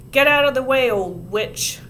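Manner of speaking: loud rude order; yelled. A narrator's reading. Eric yelling at Ramona to move. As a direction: yell it to shove her aside. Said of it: "Eric Garr yelled".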